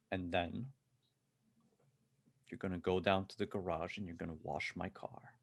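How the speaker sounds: controlled, unhurried threat with long pauses; calm menace. Acted. Gunman giving orders to a panicking executive, calm menace. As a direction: state orders evenly, no rush. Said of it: "the man stays calm".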